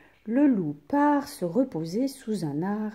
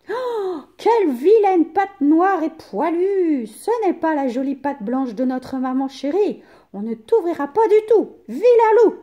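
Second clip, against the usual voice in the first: put-on high, loud kids' cry of disgust; little goats yelling at the wolf; kids shouting; 9 semitones higher, 9 dB louder than usual. A narrator's reading. Kids crying out at the black paw, very high and loud. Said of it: "crient les chevreaux".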